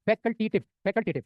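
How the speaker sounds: फैकल्टेटिव said very slowly, every syllable stretched; slow, drawn-out term. Shown as a demonstration. Teacher repeating the weed name for the class, slowly. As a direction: spell out फैकल्टेटिव slowly so students catch it. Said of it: "क्या नाम है उसका?".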